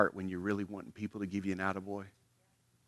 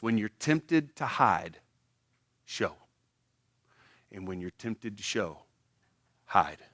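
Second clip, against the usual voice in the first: measured, slow quoting; quoted maxim; 4 dB quieter, slower than usual. Retold or imitated. Pastor quoting a maxim to his congregation, slow and measured. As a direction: weigh each clause of the saying. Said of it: "He says this".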